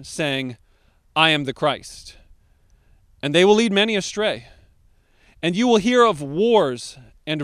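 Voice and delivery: measured, weighty Bible reading; scripture reading. Acted. Pastor reads Matthew to congregation, solemn reading. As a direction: read the passage with gravity.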